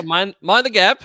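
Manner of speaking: badly faked British, sliding into Australian; British accent slipping Australian. Co-host playing the London game, British accent slipping into Australian. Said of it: "I'm kinda slipping into Australian".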